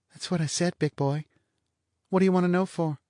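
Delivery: high, languid teasing woman; bored blonde. A narrator's reading. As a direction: toss it off, lazily mocking.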